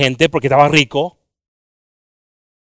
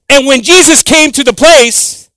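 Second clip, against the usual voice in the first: slow reading; 9 semitones higher, 7 dB louder, slower than usual. Shown as a demonstration. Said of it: "I like to read the word so slow".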